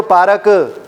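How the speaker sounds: पार्क broken into "paa-ra-k" with an extra vowel; mispronounced, no accent. Shown as a demonstration. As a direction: add a vowel after the r in पार्क. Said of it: "ना accent है ना pronunciation है". (पार्क को "पारक" जैसा बोलना)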